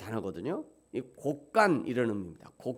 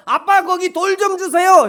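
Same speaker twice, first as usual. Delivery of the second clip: put-on child asking; 14 dB louder than usual. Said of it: "그 아들이 잘못 알고".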